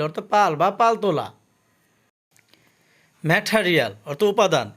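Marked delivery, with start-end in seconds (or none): 3.2-3.9 ম্যাটেরিয়াল with a puffed "th" and sounded R; T as aspirated ঠ. Shown as a demonstration. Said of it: "টি এর উচ্চারণ ঠ হবে". (ম্যাটেরিয়াল, ট হবে ঠ, র থাকবে)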